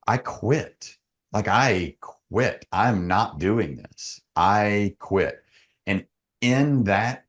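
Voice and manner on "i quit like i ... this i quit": "I quit" drawn out slowly, word by word; retold emphatic refusal. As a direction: retell a firm refusal, spacing out "I quit". Retells refusing the coach, insisting he quits.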